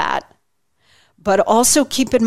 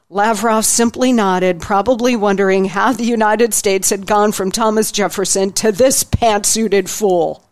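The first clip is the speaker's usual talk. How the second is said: slightly lifted book-reading voice, lightly dramatized; reading from his book. Acted. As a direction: read the passage to listeners with mild flair. Continues reading book passage.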